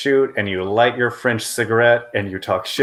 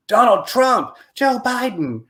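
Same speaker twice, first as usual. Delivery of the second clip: much higher, sing-song mocking of political names; mock news-feed voice; 12 semitones higher, slower than usual. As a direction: parody the endless Twitter scroll. Mocking endless political tweets.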